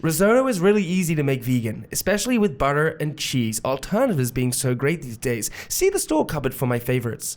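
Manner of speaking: reading a recipe in a put-on American accent; amateur American accent. Shown as a demonstration. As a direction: read it out like an American. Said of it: "read this in my American accent".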